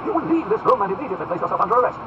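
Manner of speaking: high, loud lordly order; forceful aristocratic reprimand; stern command. Acted. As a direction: order him out with authority. Duke orders officer's arrest.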